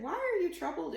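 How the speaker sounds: a hint of Jesus calming his friends; lightly voiced Jesus. A narrator's reading. Jesus asks his doubting friends, lightly voiced.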